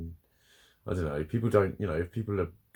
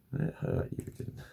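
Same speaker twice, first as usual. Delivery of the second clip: whispered pet talk; 4 dB quieter than usual. Real, not acted. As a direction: whisper it to the cat. Comforting the cat she hurt.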